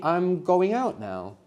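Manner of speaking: drawn-out prompt for the class to translate; slow prompt. Shown as a demonstration. Teacher reading the prompt slowly to students. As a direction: read the prompt slowly for learners. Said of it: "How would you say".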